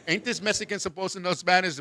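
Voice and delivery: soft muttered aside; muttered gossip. Retold or imitated. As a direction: gossip under your breath.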